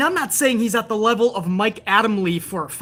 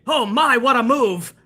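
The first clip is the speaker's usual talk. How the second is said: a hint of a flustered announcer, pitched higher; lightly mock a commentator tripping over himself; half-hearted parody of a fussy play-by-play voice; 3 semitones higher, slower than usual. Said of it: "Every other thing he says is".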